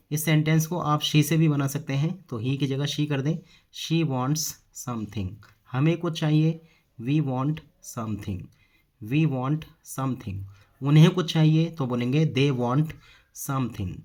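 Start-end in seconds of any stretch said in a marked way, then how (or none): 3.7-5.3 slow, word by word; measured dictation-style delivery; slow model sentence. Shown as a demonstration. Teacher models the English sentence. 7.0-10.4 slow, word by word; measured dictation-style delivery; slow model sentence. Shown as a demonstration. Teacher models the English sentence.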